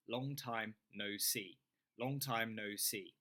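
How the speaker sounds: "Long time no see." said slowly, stress on "Long"; drawn-out, careful "Long time no see."; slow model phrase. Shown as a demonstration. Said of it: "shadow me".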